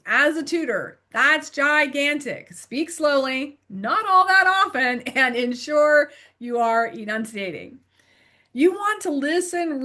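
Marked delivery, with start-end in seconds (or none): 2.5-3.6 slow, measured words. Shown as a demonstration. Tutor recapping advice for tutors, slow. 5.0-7.8 "ensure you are enunciating" with each syllable distinct; enunciated. Shown as a demonstration. Tutor recapping advice for tutors, enunciated.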